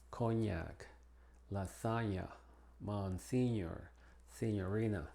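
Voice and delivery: "cognac, lasaña, monsignor, signorina" with an N-plus-Y sound; "cognac, lasaña, monsignor, signorina" with N gliding into Y. Shown as a demonstration. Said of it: "la G N se pronuncia como ñ".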